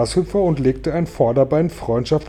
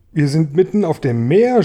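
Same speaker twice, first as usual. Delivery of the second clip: higher, louder call with a rise on Meer; alarmed cry; 5 semitones higher, 6 dB louder than usual. A narrator's reading. James to the others on discovering the open sea, crying out. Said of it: "schrie James".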